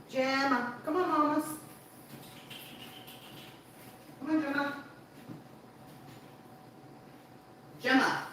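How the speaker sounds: very high pet-calling voice; high-pitched, repeated summons; coaxing a dog. Real, not acted. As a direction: coax the dog over in a high singsong.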